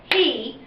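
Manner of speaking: he said as one clapped beat; one clear clap on he. Shown as a demonstration. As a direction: say he cleanly in a single clap. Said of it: "when we say it and clap it".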